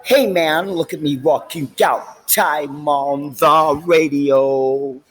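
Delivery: hammed-up dude bragging about the radio; imitating buddy rocking out. A buddy boasting to him, slow mock dude voice. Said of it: "He was like".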